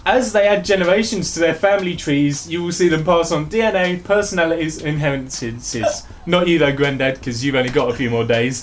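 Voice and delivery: joking wedding toast, half-laughing; best man speech. Pretend. Reading game intro to friend as a best man speech. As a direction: rib the family like a best man. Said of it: "in the style of a best man speech".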